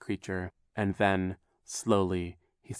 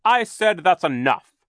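loud, slow, high-pitched scolding; growled rebuke; 9 semitones higher, 8 dB louder than usual. A narrator's reading. Banker silencing the villain, loud growled rebuke. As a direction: silence him with a drawn-out command. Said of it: "Mister Poe growled".

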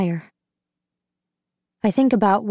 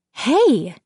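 sharp higher call of protest; mean, raised "hey"; louder, meaner; 4 semitones higher, 3 dB louder than usual. A narrator's reading. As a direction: call out meanly to stop someone. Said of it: "louder, more meanly".

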